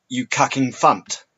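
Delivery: cucking funt, first letters swapped; spoonerism: cucking funt said slowly; jumbled syllables. Shown as a demonstration. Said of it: "For example".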